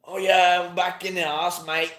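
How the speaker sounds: badly faked Australian accent, loud at the start; hammed-up Aussie impression. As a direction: have a rough go at an Australian accent. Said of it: "the Portal one was the Australian one".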